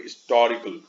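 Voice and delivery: British-accented हिस्टोरिकल, weight on the TOR syllable. Shown as a demonstration. Teacher showing how British speakers say it, British accent. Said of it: "British accent वाले लोग".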